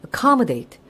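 "accommodate" with the beat on COM; pronunciation model of "accommodate", second syllable strongest; stress on second syllable. Shown as a demonstration. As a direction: stress COM in "accommodate", letting the rest drop. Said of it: "어떻게 발음한다고요".

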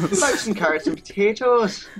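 put-on Irish accent. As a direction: say it like an Irish farmer. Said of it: "That's Irish".

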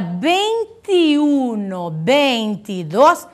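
"vinte e uno, vinte e dos" slow, the linking vowel a clear i; careful Spanish numerals, "e" said as i; clear I in middle. Shown as a demonstration. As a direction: draw out each numeral with an ee sound joining it. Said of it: "são escritos com I".

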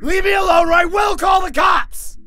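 high, panicked yell; loud, frantic warning; top-of-the-lungs shout. Acted. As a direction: shout desperately at full volume. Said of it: "shouting from the top of my lungs".

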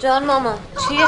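alarmed call. Acted. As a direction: jump in, worried for her kid. Mother alarmed by child's cry. (صدای نگران و بلند)

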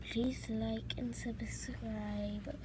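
slow, soft whispered plea; mock tearful whispered plea; pleading whisper. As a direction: beg viewers in a whisper. Pleading outro to viewers.

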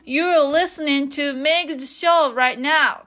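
slow, clear "You're listening to Meg's show right now"; slow teaching example; slow casual example. Shown as a demonstration. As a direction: model the casual version slowly. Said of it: "もっとカジュアルに言いたい場合は".

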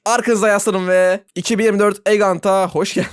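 deep, grand event announcer. Acted. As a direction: welcome them like a radio host. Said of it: "Ben de spiker gibi konuşmaya başladım".

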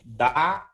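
firm, held "da"; syllable demonstration. Shown as a demonstration. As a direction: model "da" for the students to copy. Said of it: "Então, fala assim". ("da" firme e sustentado)

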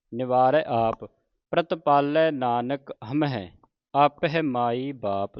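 slow, drawn-out Gurbani recitation; scripture recitation. Shown as a demonstration. Teacher models scripture for the congregation, slow measured recitation. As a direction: recite each word slowly with long vowels.

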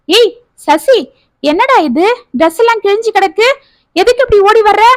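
high, fast alarmed questions; startled by the torn dress; shocked aunt. Acted.

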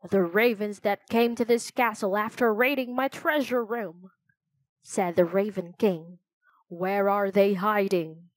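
raspy voice. Acted. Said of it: "he asked in a raspy voice".

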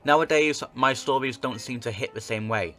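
measured letter read-aloud; narrating an old newspaper tale; story narration. Acted. Reads game letter aloud.

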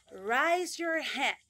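over-articulated classroom command; exaggerated command. Shown as a demonstration. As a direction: stretch out "raise your hand" like a teacher. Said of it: "el inglés es exagerado para pronunciarse".

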